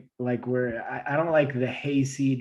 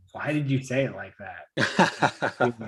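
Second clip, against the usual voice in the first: laughing quote; slower than usual. Retold or imitated. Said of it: "Gianna will be like".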